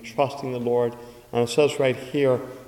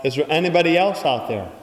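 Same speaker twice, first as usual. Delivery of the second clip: loud, raised cry for someone else; 3 semitones higher, 4 dB louder than usual. Acted. Man refusing to let go calls for help, raised and louder. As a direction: call out a bit louder, hoping for another helper. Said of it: "he cried out".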